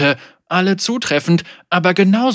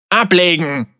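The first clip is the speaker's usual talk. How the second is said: louder, higher order to the crew; firm command; 4 semitones higher, 5 dB louder than usual. Acted. Captain ordering the boat to cast off, firm command. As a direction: give a hard captain's order.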